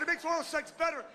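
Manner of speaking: high-pitched, outraged repeat; incredulous echo. Acted. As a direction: throw the claim back in disbelief. Outraged echo of wife's claim.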